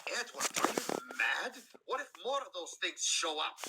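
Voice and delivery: Scottish engine alarmed at sharing water. Acted. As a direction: scold him in alarm, Scottish. Douglas alarmed at Edward.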